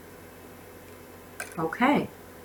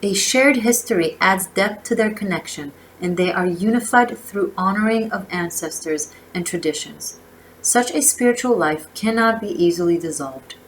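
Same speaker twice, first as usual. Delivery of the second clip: measured oracle-card reading, phrase by phrase; reading aloud. Real, not acted. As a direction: read the card's message out with emphasis. Reads I Ching text aloud.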